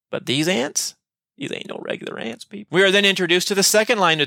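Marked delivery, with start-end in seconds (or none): 1.4-2.7 softer, higher conspiratorial whisper. Acted. Teacher telling listeners these ants are different, whispered. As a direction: lean in and whisper it to the class.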